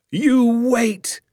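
high, eager exclamation; excited cry. A narrator's reading. Father promising his son a treat, excited cry. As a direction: cry it out with great relish. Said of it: "he cried".

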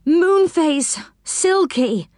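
high-pitched, plaintive appeal; groaning plea. A narrator's reading. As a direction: call on friends pleadingly, pitched high. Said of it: "he groaned".

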